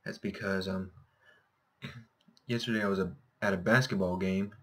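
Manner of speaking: hoarse, scratchy throat. Real, not acted. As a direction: talk through a sore throat. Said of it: "If my voice sounds a little scratchy".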